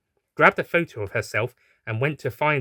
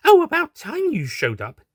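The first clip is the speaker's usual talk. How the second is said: high, louder teasing doctor voice; mock impatience; 5 dB louder than usual. A narrator's reading. Doctor greeting the late unit, high mock impatience. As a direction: tease them for being late.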